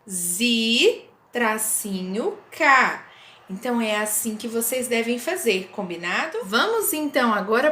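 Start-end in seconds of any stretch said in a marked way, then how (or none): 0.1-3.1 Zi, tracinho, ka said slowly, syllable by syllable; syllable split. Shown as a demonstration. Teacher to pupils, splitting zika into syllables. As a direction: break zika into Zi and ka. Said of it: "eu separei dessa forma".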